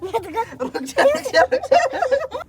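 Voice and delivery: slow words broken by laughter; laughing through words. Real, not acted. Telling brother to wait while laughing. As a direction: giggle while begging him to stop.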